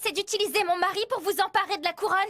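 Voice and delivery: irritated, pitch lifting as you go; irritated accusation. Acted. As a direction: accuse them indignantly. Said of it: "inutile de t'énerver".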